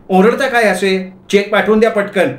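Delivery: high-pitched, peremptory wife; demanding wife. Acted. Wife ordering husband to send a cheque, high demanding voice.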